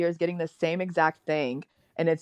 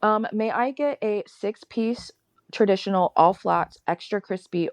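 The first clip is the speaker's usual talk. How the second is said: ordering at counter; 2 semitones higher than usual. Retold or imitated. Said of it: "exactly how I order it".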